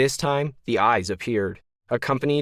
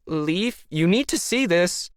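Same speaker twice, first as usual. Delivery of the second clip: yelling; 8 semitones higher than usual. A narrator's reading. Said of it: "the Leaf lookalike yelled".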